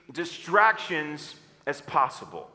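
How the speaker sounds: slow, measured "distractions as possible"; call to repeat. Shown as a demonstration. Preacher has the room say "distractions as possible", slowly. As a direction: space out "distractions as possible" for a crowd to join. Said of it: "say this with me".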